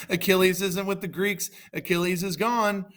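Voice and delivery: high-pitched, crowing delight; gloating. Acted. Hector crows that Achilles is gone, high and gloating. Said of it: "Hector was laughing".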